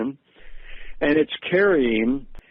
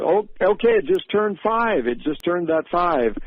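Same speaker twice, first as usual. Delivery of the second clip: higher-pitched, lightly voiced eager little boy; excited child; 5 semitones higher than usual. Young son in the van tells Daddy it turned five, excitedly. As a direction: call out the news like an excited kid.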